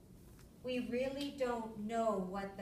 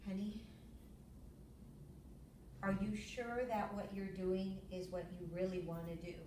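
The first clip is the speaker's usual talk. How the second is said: calm; 4 semitones lower, 5 dB quieter than usual. Retold or imitated. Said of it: "Very calmly, just like that".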